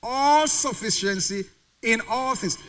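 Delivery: All stretched out slowly; slow, deliberate weight on All; stress on All. Shown as a demonstration. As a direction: lean on each all, taking it slowly. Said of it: "Look at the emphasis on all in that verse".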